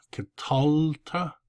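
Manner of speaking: "katalta" slowly, weight on "tal"; stressed middle syllable. Shown as a demonstration. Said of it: "Notice the accent".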